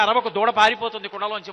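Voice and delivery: put-on the boy shushing her back with a straight face; mock hushing. Krishna hushing the gopika. (అల్లరి కృష్ణుడు గోపికను గదమాయించడం)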